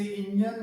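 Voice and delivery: "इंजन" with a short i at the start, "in-jan"; wrong engine pronunciation. Shown as a demonstration. Teacher showing students a common mistake, mispronounced "इंजन" as in-jan. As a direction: say "इंजन" as IN-jun. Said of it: "जो कि गलत है".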